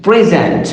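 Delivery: PREsent, weight on the first syllable; stress on first syllable. Shown as a demonstration. Lecturer contrasting noun with verb, first syllable of PREsent stressed. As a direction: say present as the noun, PRE-sent. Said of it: "if I use this word as a noun".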